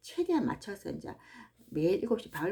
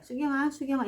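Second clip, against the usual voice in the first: lightly imitated call, pitched higher; audible calling voice; 7 semitones higher, 3 dB louder than usual. Imagining God calling her by name, higher calling voice. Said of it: "진짜 음성으로".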